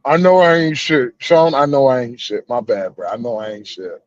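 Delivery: talking around a lit cigarette; words muffled by a cigarette between the lips; cigarette in mouth. Real, not acted. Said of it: "let me light a cigarette for this motherfucker".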